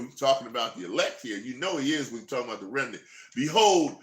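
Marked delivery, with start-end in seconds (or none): 3.3-4.0 slow, solemn Bible reading; scripture reading. Acted. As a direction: read it out like a preacher. Reads scripture aloud.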